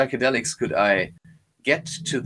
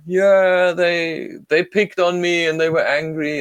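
put-on higher hurt child's voice, somewhat louder; young child; 6 semitones higher, 4 dB louder, slower than usual. Hurt inner child telling his adult self, higher child voice. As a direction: speak as the small boy who was bullied.

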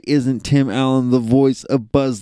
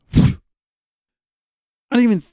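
stunned drawn-out disbelief; 11 semitones higher, 4 dB louder, much slower than usual. Real, not acted. Stunned by the answer.

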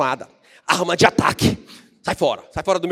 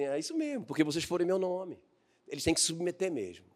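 calm Jesus; 10 dB quieter than usual. Retold or imitated. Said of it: "Jesus ficou assim".

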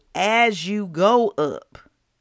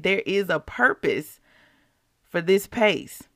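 emotional; slower than usual. Real, not acted. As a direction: let the feeling catch you as you repeat it. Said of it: "Why am I getting emotional right now".

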